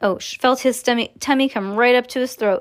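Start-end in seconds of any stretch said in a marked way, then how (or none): none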